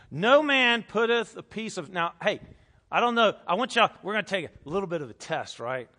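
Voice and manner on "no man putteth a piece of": loud, higher-pitched verse reading; emphatic scripture reading. Shown as a demonstration. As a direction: hammer out each word of the verse. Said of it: "let's read it with a less obnoxious".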